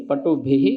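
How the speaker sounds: पटुभिः ending in a breathy h; visarga sounded. Shown as a demonstration. Teacher voicing the visarga of पटुभिः for students. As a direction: finish पटुभिः with a clear aspirated h. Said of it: "भी के विसर्ग भी है".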